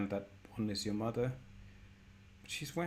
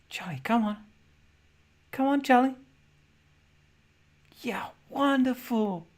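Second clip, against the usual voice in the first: high, loud cheering on; mother's encouragement; 12 semitones higher, 9 dB louder than usual. Acted. Game master as mother urging Charlie on, excited calling. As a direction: call out to urge the child along.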